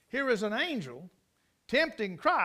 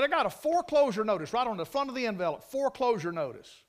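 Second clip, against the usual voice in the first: angry; 3 dB louder than usual. Retold or imitated. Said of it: "He's mad".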